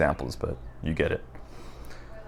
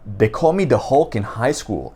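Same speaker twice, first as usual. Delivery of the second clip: Mikey; 4 semitones higher, 3 dB louder than usual. Retold or imitated. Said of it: "saying things in his accent".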